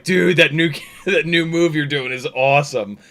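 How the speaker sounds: lightly acted amazement; impressed exclamation. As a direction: imitate an impressed buddy with a laugh. Quotes Brad's impressed reaction.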